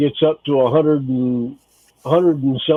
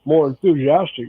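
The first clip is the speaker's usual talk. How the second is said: talking with a mouth full of food; words round a mouthful. Real, not acted. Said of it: "I got my mouth full".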